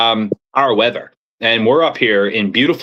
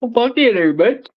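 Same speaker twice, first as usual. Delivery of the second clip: much higher, sing-song Bubbles voice; Bubbles impression; 11 semitones higher than usual. Showing off to friends, a higher Bubbles voice. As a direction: pitch way up into a cartoonish Bubbles. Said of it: "You remind me of Bubbles".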